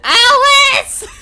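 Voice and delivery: high desperate yell at Alice; anguished shout. Real, not acted. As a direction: cry out the name in despair. Yells at redeeming viewer.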